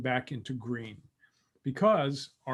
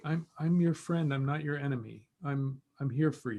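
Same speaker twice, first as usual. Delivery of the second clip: soft reassuring voice; 4 dB quieter than usual. Shown as a demonstration. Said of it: "soft voice".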